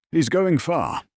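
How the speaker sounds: high, loud, impressed onlooker; excited admirer. A narrator's reading. Another bystander predicts the youth's future, excitedly admiring.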